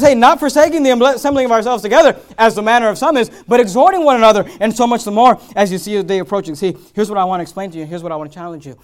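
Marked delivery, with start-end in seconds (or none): 0.0-6.5 preacher booms the verse out loud; preached verse. Acted. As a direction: proclaim the verse to the congregation.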